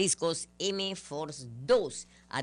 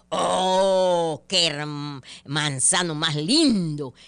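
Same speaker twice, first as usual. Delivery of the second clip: louder, slower gushing exclamation; mock exclamation; 6 dB louder, much slower than usual. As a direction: gush over the tree. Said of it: "exclamó".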